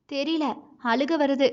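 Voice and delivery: small, soft, tearful reply; close to tears. Acted. Wife admitting to husband she feels like crying, tearful. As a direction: hold back tears, quietly. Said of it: "கண்கள் கலங்கியதையும் குரல் மாறியதையும்".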